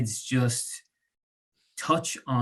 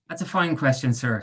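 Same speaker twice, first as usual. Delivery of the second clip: mock owl voice. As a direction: ham it up like a wise old owl. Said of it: "putting on an owl voice".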